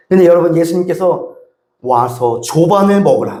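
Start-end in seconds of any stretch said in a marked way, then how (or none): 1.8-3.4 lower, slow and theatrical; stagey. Shown as a demonstration. Pastor mocking a stagy reading of Jesus, theatrical. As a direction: read it like a stiff play. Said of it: "마치 연극하듯이".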